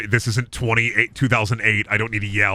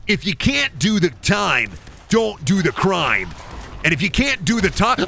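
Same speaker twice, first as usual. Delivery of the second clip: put-on catchphrase voice; 6 semitones higher than usual. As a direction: belt out a hammed-up one-liner. Catchphrase performed while playing.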